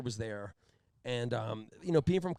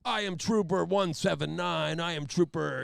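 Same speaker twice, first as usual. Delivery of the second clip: slow, pitched-up, self-important announcement; mock pompous cop introducing himself; swaggering trooper; 4 semitones higher, 3 dB louder than usual. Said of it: "attitude of this big swinging cock".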